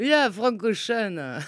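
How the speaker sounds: slow, drawn-out mimicry of mangled German; echoed mock German. Guest echoing the host's misheard-German story, slow mock German. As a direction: parrot the silly German, stretching each word.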